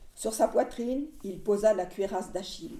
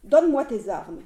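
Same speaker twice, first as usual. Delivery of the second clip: pleading. Acted. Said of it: "Il le dit d'une voix qui suppliait".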